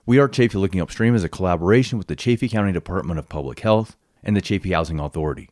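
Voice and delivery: measured, scripted host introduction; podcast intro read. Acted. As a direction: read the show intro with deliberate pauses between phrases.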